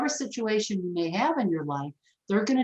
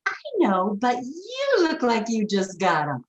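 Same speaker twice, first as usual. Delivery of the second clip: mock tactless neighbor; 3 semitones higher than usual. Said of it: "And he'd say".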